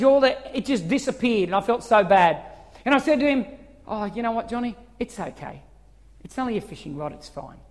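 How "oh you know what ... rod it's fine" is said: gentle reassurance. Retold or imitated. Dad softens to son.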